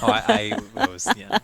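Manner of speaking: high, loud flustered laugh. Real, not acted. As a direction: stammer through laughter.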